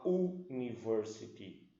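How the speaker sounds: "university" said with a plain u as in "oo-niversity"; "university" wrongly started with a bare u sound; wrong pronunciation. Shown as a demonstration. Teacher shows the wrong way to say it. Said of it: "pode ver como é que pronuncia".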